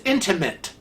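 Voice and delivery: "intimate" ending in "mint", with an added n; mispronounced intimate. Retold or imitated. Imitating Kevin's habit, "intimate" said with mint at the end. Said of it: "he'll say it as intimate".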